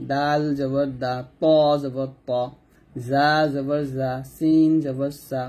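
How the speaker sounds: slow and deliberate: সা জবর সা, জা জবর জা; each syllable from the tongue tip, slowly; careful recitation drill of Arabic letters. Shown as a demonstration. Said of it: "তারপরে জিহ্বার আগা থেকে".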